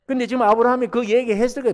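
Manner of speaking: ordinary talk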